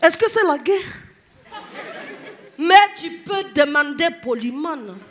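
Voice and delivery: imitated Ivorian mama taking offence; mock-indignant Ivorian passenger; indignant Ivorian mother. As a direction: play an offended Ivorian mum on the bus. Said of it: "ça donne ça".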